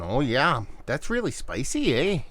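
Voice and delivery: hammed-up stereotype Canadian accent, leaning on the eh; a playful bad Canadian impression; mock Canadian accent. Beer reviewer teasing Canadian friends, mock Canadian accent. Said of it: "horrible impersonation of stereotypes".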